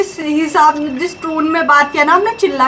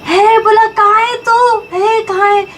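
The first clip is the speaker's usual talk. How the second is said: a raised mock call from a deaf old man; imitating grandpa's shout; 5 semitones higher than usual. Wife retells deaf grandpa shouting for his son, mock yell. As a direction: call out like hard-of-hearing grandpa, higher. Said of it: "दादा बोल रहे".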